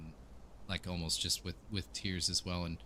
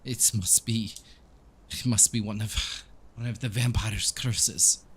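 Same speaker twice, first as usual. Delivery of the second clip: put-on lightly tearful accented priest; halting, accented priest searching for the cause; troubled Donovich; 3 semitones higher than usual. Priest blaming a vampire's curse, halting and troubled. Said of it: "he's, like, crying at this stage".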